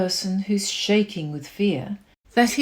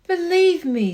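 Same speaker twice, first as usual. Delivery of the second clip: higher, louder, pleading; earnest plea; 7 semitones higher, 5 dB louder than usual. A narrator's reading. Horton pleading with the kangaroo, earnest. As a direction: beg them to believe you. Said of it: "I tell you sincerely".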